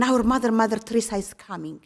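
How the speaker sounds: nuns spreading the exciting news; excited announcement. Retold or imitated. Nuns jumping with joy, announcing their mother excitedly.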